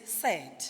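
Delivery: "sad" slow, vowel drawn out like eh; vowel sound demo. Shown as a demonstration. Teacher giving an example of eh, "sad" demonstrated slowly. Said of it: "It says".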